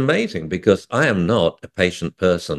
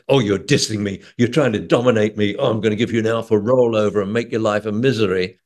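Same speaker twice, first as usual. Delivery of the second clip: mock dominance trainer; faster than usual. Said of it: "I don't say".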